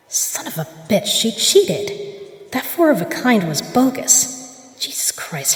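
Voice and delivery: a hissed, furious whisper under her breath; angry whisper. Acted. Hissing to herself on finding the rookie cheated. Discovers she was cheated at cards.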